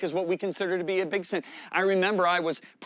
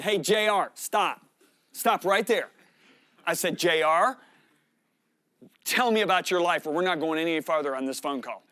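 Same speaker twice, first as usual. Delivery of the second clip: raised, commanding interruption; firm stop; 5 dB louder than usual. Retold or imitated. Preacher stops the caller's tangents with a loud firm command. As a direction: cut him off firmly and loudly.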